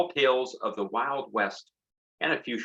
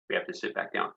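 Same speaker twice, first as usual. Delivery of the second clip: whispered aside, much softer; softly repeated; 3 semitones lower, 7 dB quieter, faster than usual. Real, not acted. Teacher quietly repeats the gopher rule to kids, whispered. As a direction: murmur the rule again.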